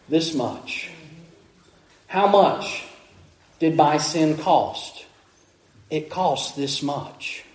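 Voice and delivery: slow, hushed and grave, with long pauses; solemn preaching. Real, not acted. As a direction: let each short phrase sink in softly.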